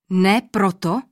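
taken aback, demanding why; surprised king. A narrator's reading. King hears an unexpected answer from the old man, startled question. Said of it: "zvolal překvapeně král".

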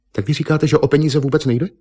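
high, incredulous echo question; nechápavá otázka. A narrator's reading. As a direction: echo him in disbelief, voice rising high. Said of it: "se zatvářila nechápavě". (nechápavě, vysokým tázavým hlasem)

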